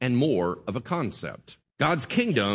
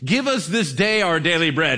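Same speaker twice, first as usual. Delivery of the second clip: louder, eager recital of a prayer; really excited; 2 semitones higher, 4 dB louder than usual. Acted. Pastor imitating congregation praying for bread, excited. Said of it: "then we really get excited".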